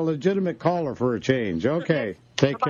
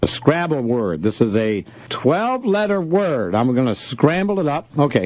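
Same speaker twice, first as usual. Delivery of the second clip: upbeat morning radio host; bright on-air DJ patter; 3 dB louder than usual. Acted.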